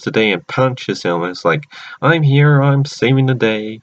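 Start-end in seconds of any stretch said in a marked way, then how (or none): 2.0-3.8 raised, louder hero's entrance; lightly hammed-up heroic call; mock heroic announcement. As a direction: announce a rescue like a cartoon hero. Retold hero arriving to save day.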